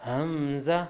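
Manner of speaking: حمزہ begun on h, "hamm-za". Shown as a demonstration. Teacher modelling for learners, حمزہ from the h. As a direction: hold the m in حمزہ slightly. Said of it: "یہ بھی ہا سے نکلے گا".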